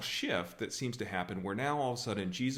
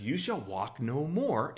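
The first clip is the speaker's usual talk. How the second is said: slow, higher pronouncement; mock solemn curse; 4 semitones higher, 4 dB louder, slower than usual. Jesus turning on the kid who bumped him, mock solemn curse. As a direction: pronounce it slowly like a doom, hammed-up.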